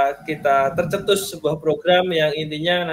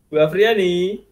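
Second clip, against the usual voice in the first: drawn-out name call with a rising end; 4 dB louder, slower than usual. Real, not acted. Host to silent online participant, calling out. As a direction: call out to someone not answering.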